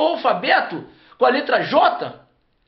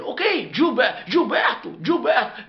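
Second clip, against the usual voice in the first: American saying the name. Retold or imitated. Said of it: "Aí ele".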